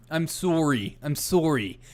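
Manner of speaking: apologetic mock-Canadian accent; hammed-up Canadian "sorry"; bad Canadian accent. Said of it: "I don't have a very good Canadian accent".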